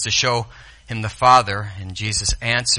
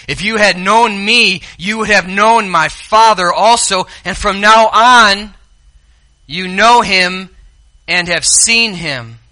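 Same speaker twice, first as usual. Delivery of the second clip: raised, slowing emphatic teaching; Jesus gently insisting to Philip; Jesus speaking; 8 semitones higher, 9 dB louder, slower than usual. Acted. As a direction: lay it out slowly for the disciples. Preacher voicing Jesus' words.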